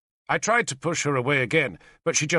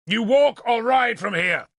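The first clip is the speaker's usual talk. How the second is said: high, louder, insistent; shouted demand; 9 semitones higher, 4 dB louder than usual. A narrator's reading. Lord demands the princess leave the wagons, loud. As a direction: force her to choose now. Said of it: "I shouted at her".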